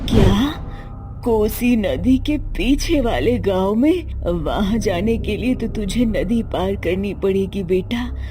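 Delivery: lightly voiced mother, startled then cautioning; a hint of a worried mother warning the son. Mother worries about river crossing. (चिंतित माँ की हल्की आवाज़, समझाते हुए)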